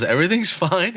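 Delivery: high, singsong imitation of reassurance; Zach reassuring. Sitter tells friend in collapsed tent, high-voiced mock reassurance. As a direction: pitch it way up to soothe a panicker.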